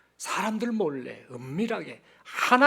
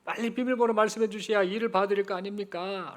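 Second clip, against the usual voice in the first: higher, exasperated pleading; frustrated bank clerk; 4 semitones higher than usual. Acted. Busy clerk urging grandmother to say the number, exasperated. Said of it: "은행 여직원이 답답합니다".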